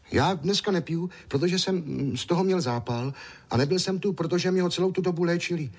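put-on high, eager small boy's voice; little boy Ondroušek. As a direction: play a chatty little boy.

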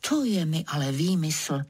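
ordinary delivery, nothing marked

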